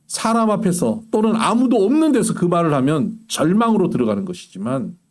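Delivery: usual speaking voice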